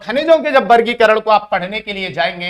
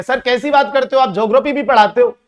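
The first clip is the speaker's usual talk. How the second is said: Salman Khan; 4 semitones higher, 3 dB louder than usual. Retold or imitated. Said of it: "कि".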